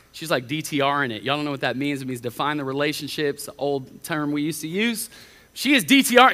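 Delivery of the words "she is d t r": raised and louder, emphatic. Real, not acted. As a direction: hammer home she is D T R. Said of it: "emphatic retelling".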